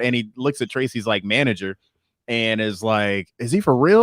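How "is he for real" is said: raised, alarmed mock question; acted freak-out. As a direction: ask it high and louder, imitating mild panic. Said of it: "he's, like, freaking out".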